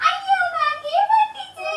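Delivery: very high, loud, slow mock dismay; playful exclaim. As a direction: ham up the rhyme's ending for the baby. Rhyme's punchline to baby.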